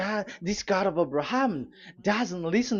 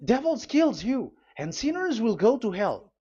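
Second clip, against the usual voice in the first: calling out; 5 semitones higher than usual. Acted. Elia calls sinners back from danger, calling out. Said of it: "He calls you".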